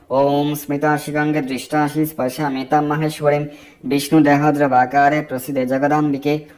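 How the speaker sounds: measured devotional recital; mantra recitation. Acted. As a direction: intone the mantra as a prayer.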